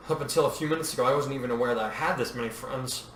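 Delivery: groggy. Acted. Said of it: "Padme said groggily".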